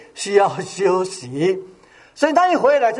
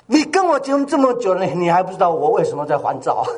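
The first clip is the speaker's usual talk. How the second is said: mock angry wife; faster than usual. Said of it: "她就生气了".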